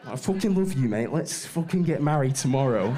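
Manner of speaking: hammed-up drunken Northern English accent; drunk Northerner. Drunk Northerner declaring love to a mate, hammed-up accent. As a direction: imitate a Northern lad drunk and gushing. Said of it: "Northerners get drunk".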